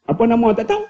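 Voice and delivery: Kedah-style question, TAHU lifted at the end; Kedah dialect. Retold or imitated. Preacher mimics Kedah folk at the clinic, Kedah dialect. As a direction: quote it in Kedah dialect, ending high. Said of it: "kalau orang Kedah pergi".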